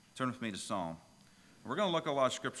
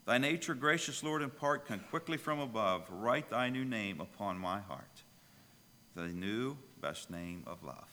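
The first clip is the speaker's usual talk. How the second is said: recited hymn. Acted. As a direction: lay the hymn words out with reverence. Hymn lines recited at the start.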